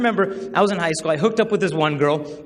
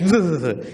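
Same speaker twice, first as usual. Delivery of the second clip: mock freaked-out splutter; retold freak-out noise. Wife seeing the photo, mock freak-out. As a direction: imitate a wife spluttering in shock. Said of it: "She freaks out".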